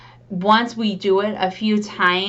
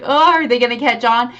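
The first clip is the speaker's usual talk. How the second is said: worried aside; 4 semitones higher, 4 dB louder than usual. Retold or imitated. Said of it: "you're like".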